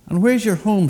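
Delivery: very high, loud, prying bird; shrill crow question, high up; old crow voice. A narrator's reading.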